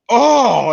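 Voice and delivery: high, loud retold "oh"; disgusted groan. Friend seeing the destroyed toilet, loud dismayed groan. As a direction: cry out in mock horror. Friend reacts to filthy stall.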